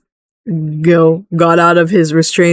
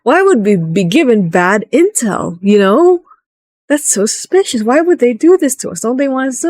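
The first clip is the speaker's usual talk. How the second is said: suspicious party members; 5 semitones higher than usual. Retold or imitated. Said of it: "they think it's like".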